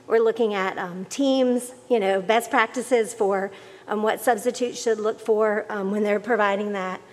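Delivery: muffled speech behind a mask; talking through a cloth mask; through a face mask. Real, not acted. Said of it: "it's hard to talk with the mask on".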